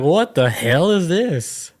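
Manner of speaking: drawn-out "what the hell"; slow disbelief. Retold or imitated. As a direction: stretch it in disbelief. Retold reaction to text.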